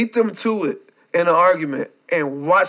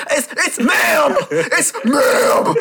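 imitating insistence; 5 semitones higher, much slower than usual. GameStop worker correcting a customer.

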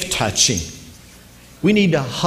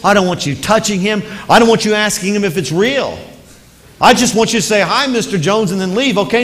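higher, louder anxious mother laying down the rules; a mom firmly warning her little girl; mom's stern warning; 6 semitones higher, 3 dB louder than usual. Retold or imitated. Mom warns daughter before party.

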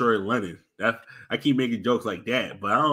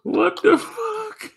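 shocked laugh; 5 dB louder, much slower than usual. Real, not acted. Reacting to the Family Guy clip.

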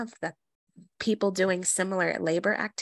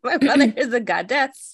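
emphatic praise; 6 semitones higher, 8 dB louder than usual. Real, not acted. Proud emphatic praise of mother.

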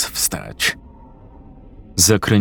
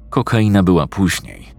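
ordinary delivery

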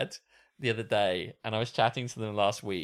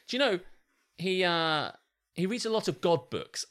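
higher-pitched imitation of mum; lightly patronising mum, confiding in her child; condescending mum; 6 semitones higher than usual. Mum tells her child about dad's reading, mildly condescending. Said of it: "It just sounds kind of condescending".

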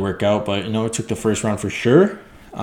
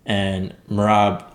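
ordinary talk

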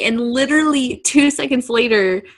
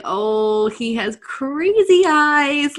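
slow, drawn-out, higher-pitched reaction; mock amazed realization; 4 semitones higher, much slower than usual. Co-host retelling her reaction to his face, mock amazement. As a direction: stretch it out in playful alarm.

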